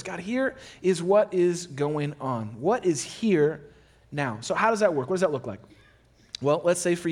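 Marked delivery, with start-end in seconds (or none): 0.0-4.4 slow, deliberate prayer to God. Shown as a demonstration. Pastor modeling a prayer to God, slow and deliberate. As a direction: lay each word down slowly before God. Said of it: "bring them up to the surface".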